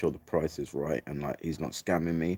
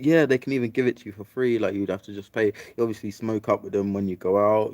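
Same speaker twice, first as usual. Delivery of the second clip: voicing the girl; 5 semitones higher, 4 dB louder than usual. Girl's answer voiced in story.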